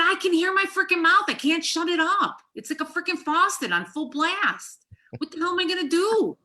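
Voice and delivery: loud, high, worked-up rant; retold angry outburst. Wife to husband mid-argument, loud and fired up. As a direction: let the adrenaline run the words. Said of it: "I was so freaking angry".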